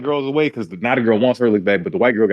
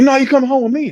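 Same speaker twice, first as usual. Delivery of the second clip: mock insistent demand; 13 semitones higher, 4 dB louder than usual. Retold insistent counter-demand.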